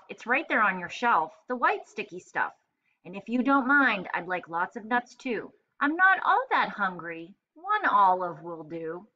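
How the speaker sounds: lively read-aloud with voiced characters; story narration. Teacher reading the sandwich story to first graders, animated narration. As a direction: play up the rhyme and the characters for young listeners.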